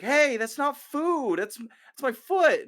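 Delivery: annoyed soldier to dog. Retold or imitated. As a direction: shoo a dog away from your sore foot. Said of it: "Thaddeus is like".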